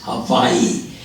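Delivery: "Hawaii" with a V in place of the W; V pronunciation. Acted. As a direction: answer "Hawaii" as ha-VAI-ee. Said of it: "How do you pronounce it?".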